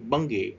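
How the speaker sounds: "Bungee" stressed on BUN, falling away on gee; stress on first syllable. Shown as a demonstration. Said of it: "we straight at the first syllable". (nhấn vào âm đầu của "Bungee")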